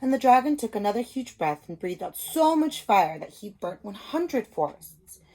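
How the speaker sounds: put-on reading a picture book to young children; storybook reading. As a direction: tell it like a teacher at story time. Story narration.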